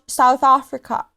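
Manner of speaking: put-on South African accent; name the country in a South African accent. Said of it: "you like South African?".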